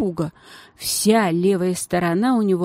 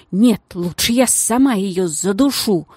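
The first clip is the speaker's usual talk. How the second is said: boiling rage; 4 dB louder than usual. Acted. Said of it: "закипая бешенством".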